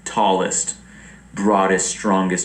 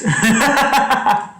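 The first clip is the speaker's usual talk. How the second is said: giggling fit, high and loud; high burst of laughter; 4 dB louder than usual. Real, not acted. Vlogger laughing at her ghost joke, high giggles.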